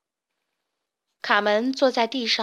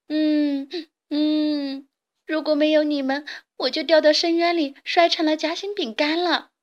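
sobbing words, rising higher and louder; frightened crying; 5 semitones higher, 4 dB louder than usual. A narrator's reading. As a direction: cry out in fright after a near fall. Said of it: "吓得大哭了起来". (吓得边哭边说)

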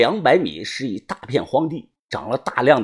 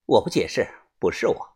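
lower, softer, composed reply; calm denial; 6 semitones lower, 6 dB quieter than usual. A narrator's reading. Accused aunt answers the group, calm and quiet. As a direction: deny it quietly without pleading. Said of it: "脸色平静地说".

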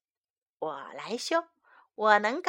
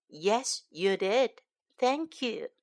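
lightly voiced dad; 3 dB quieter than usual. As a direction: answer softly as a loving dad. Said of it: "Dad says".

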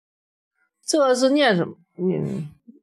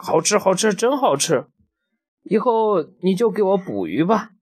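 T-rex voice; 6 semitones higher than usual. Pretend. T-rex voiced eating fish.

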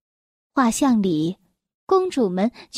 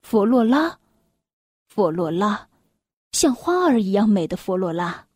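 dreamily repeating the beloved's name, sinking lower; a touch of dazed adoration; lovestruck murmuring; 4 semitones lower than usual. A narrator's reading. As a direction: say it lost in infatuation, lingering between phrases. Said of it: "痴痴地反复地说着".

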